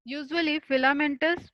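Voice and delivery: very slow, every word spaced out for students to write; dictating a definition. Shown as a demonstration. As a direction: spell it out slowly for notes. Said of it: "definition of fungi". (परिभाषा धीरे-धीरे लिखवाना)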